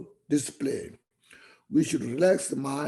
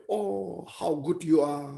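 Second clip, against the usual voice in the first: imitated echo; 3 semitones higher than usual. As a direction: play the mountain echoing the praise back. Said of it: "The echo will say".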